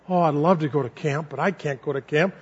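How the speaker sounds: mildly imitating a sad little boy; dejected child. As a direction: let the hope sink on "can't". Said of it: "he was kinda dejected".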